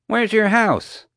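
slow, very high bewildered question; baffled. A narrator's reading. Guard finding the house missing, baffled. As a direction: stretch it out in high disbelief.

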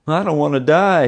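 high, loud frightened whine; whining. A narrator's reading. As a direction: whine it like a big baby. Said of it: "he whined".

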